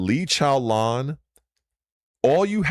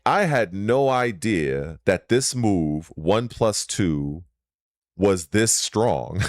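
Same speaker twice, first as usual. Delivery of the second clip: slow, lower-pitched quote of another streamer; quoting the creator; 5 semitones lower, slower than usual. Retold or imitated. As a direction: deliver it slowly, lightly imitating him. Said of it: "and he was like".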